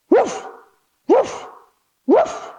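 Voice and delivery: short playful woofs; dog barks. Shown as a demonstration. Teacher barks three times for downward dog, playful woofs. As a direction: bark like a friendly dog. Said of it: "give me three big dog barks".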